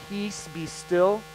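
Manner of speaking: calm command. Retold or imitated. Jesus calming wind and waves, slow calm command.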